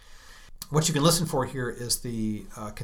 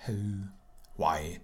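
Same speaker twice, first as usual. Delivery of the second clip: sorrowful sigh; 3 semitones lower, 5 dB quieter than usual. Shown as a demonstration. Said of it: "or for sorrow".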